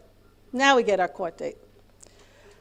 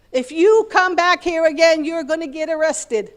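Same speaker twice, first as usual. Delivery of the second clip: loud, slow, high stern warning; retold threat from a police officer, said loud and slow; 7 semitones higher, 8 dB louder than usual. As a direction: bark it out like a cop warning them off.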